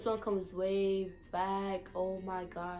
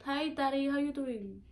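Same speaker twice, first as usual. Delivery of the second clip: higher-pitched greeting in Saint Thomas accent; Virgin Islands accent; 4 semitones higher than usual. Shown as a demonstration. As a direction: greet dad like an island child. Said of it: "my accent".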